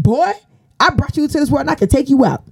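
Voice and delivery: high, fast hammed-up mom threat; mock furious mom. Mom losing it with her arguing teen son, mock furious. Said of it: "she's like".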